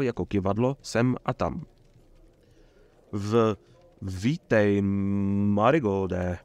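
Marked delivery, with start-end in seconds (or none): 3.1-6.4 stuck first sound, slow dragged name; stammering. A narrator's reading. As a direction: choke out a startled welcome. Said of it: "vykoktal a hlasitě polkl slinu". (vykoktat zaraženě)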